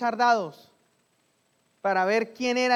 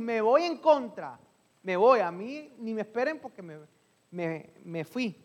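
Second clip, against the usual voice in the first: un toque de Jonás terco, que se va; "me voy" dicho más fuerte y lento; Jonás desafiante; 3 dB louder than usual. Acted. Jonás citado huyendo. (Jonás se burla de todos al huir, algo más fuerte)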